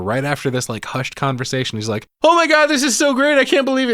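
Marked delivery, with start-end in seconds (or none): 2.2-3.9 high, loud gleeful shout across a room; acted-out overjoyed yelling, pitched way up; excited yell. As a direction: holler it giddily to someone far away. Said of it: "he yells across the casino after her".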